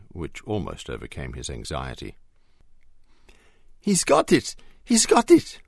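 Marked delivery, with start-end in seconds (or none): 3.8-5.6 high, loud sing-song cheering; gleeful chant of triumph; joyous sing-song. A narrator's reading. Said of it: "came the joyous sing-song voice of Marco".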